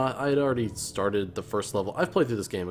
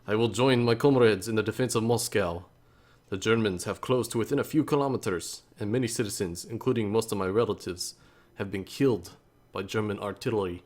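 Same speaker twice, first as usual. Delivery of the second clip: put-on light Russian accent. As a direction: read the soldier's letter in a mild Russian accent. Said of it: "I don't know if I can do the Russian accent that well".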